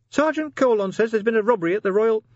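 very high-pitched, small sergeant voice; nervous sergeant. A narrator's reading. Sergeant answers the commander about the headline, high and nervous. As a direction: pipe up in a high little voice.

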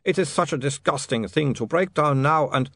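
put-on high accented lament; ashamed vampire. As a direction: confess it wretchedly in a vampire accent.

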